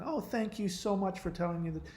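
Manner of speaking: high, soft put-on thanks; soft imitation of a thankful wife; mock gratitude. Acted grateful reply.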